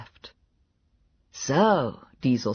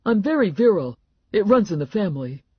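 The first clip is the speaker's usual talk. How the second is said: boastful Clown; 7 semitones higher, 4 dB louder, faster than usual. A narrator's reading. Narrator voices boasting Clown.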